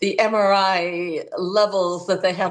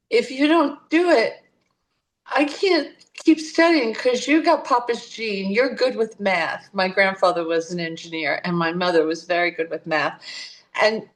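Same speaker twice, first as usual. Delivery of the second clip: mock tearful plea; 3 semitones higher than usual. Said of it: "And so she was crying".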